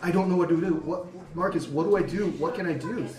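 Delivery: freaking out. Retold or imitated. Player retelling Dom begging Marcus for help, mildly freaking out. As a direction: act out a character's helpless freak-out, lightly. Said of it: "freaking out".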